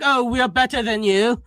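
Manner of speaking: mock-pretentious Oxford voice. Early Oxford speakers setting themselves apart, mock pretentious. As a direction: put on superior Oxford airs. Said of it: "started as a pretentious thing".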